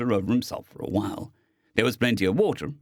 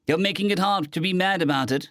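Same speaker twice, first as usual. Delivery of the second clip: grumbling; 7 semitones higher than usual. A narrator's reading. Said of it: "Stowaway grumbled".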